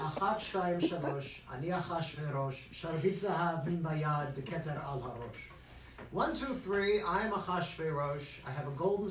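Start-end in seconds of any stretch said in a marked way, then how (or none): 0.0-5.5 school play line. Retold or imitated. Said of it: "But my line was".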